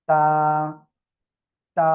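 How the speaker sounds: তা with tongue tip at the upper tooth roots; pronounce তা. Shown as a demonstration. Teacher repeating তা for class. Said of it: "লাগিয়ে উচ্চারণ করেন".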